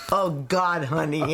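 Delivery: put-on father's German accent. Daughter imagines her late father reacting from his grave, light German accent. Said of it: "in his German accent".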